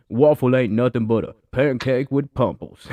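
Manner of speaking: put-on African American accent; lightly done African American accent. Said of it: "I'll use my black voice".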